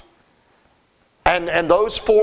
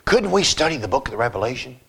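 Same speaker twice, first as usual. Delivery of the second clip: pleading congregant; 8 semitones lower than usual. Retold or imitated. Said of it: "more requested by people".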